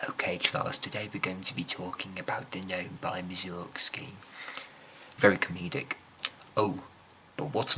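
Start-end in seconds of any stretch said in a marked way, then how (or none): 0.1-4.1 a lightly put-on quirky teacher; eccentric teacher voice. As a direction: introduce the lesson like an odd music teacher. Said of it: "This man's voice was literally like".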